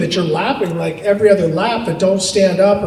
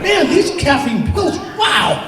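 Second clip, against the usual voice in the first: high and laughing, rushing fast through it; wired on caffeine; 6 semitones higher than usual. Retold or imitated. Telling his teammate he's ready, high fast wired voice. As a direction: bounce off the walls with energy. Wired on pills before race.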